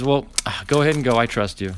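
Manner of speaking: imitating a reluctant permission with a sigh; sighing, grudging. Store worker grudgingly letting the shopper go, with a sigh. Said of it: "the way he looked at me and says".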